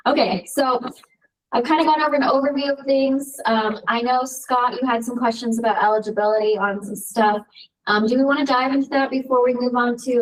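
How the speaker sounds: distant echoey room sound; echo chamber. Real, not acted. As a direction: far from the mic, echoing. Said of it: "you sound like you're in an echo chamber to me".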